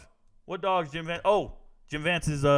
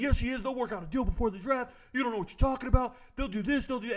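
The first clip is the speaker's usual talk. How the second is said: mocking critics; 5 semitones higher, 4 dB quieter, faster than usual. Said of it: "they all attacked me".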